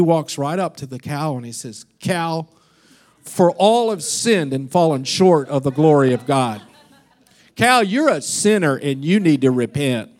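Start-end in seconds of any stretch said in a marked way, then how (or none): 2.0-10.1 mock preacher building up, louder; preaching to a cow. Pastor preaching salvation to a cow, mock fervent. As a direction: ham up a street preacher to a cow. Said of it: "Now he's starting to get into it".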